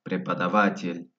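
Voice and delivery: "Prepadavatl" with A for written O; "Prepadavatl", unstressed O pronounced as A; O read as A. Shown as a demonstration. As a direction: say "Prepadavatl" with open A sounds before the stress. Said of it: "la O se lee como A".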